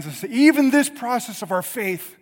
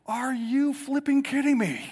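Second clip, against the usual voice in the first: high-pitched, indignant disbelief; retold incredulous outrage; 8 semitones higher than usual. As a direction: re-enact your indignant reaction. Retells outrage at the classmate's attack.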